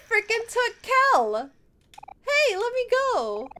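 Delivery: panicked shout. Acted. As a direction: kid fighting to get free. Friend grabbed by villains.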